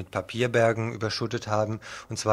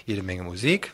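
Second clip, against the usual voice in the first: whispered teaser line. Acted. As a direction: breathe it like a secret promise. Whispered teaser in programme intro.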